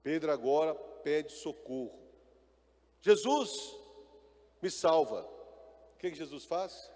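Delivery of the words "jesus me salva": cry for help. Acted. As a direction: call out to be rescued while sinking. Peter sinking, cries for help. (Pedro afundando grita por socorro a Jesus, desesperado)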